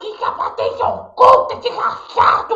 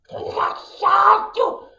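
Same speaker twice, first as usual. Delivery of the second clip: ordinary talk, nothing marked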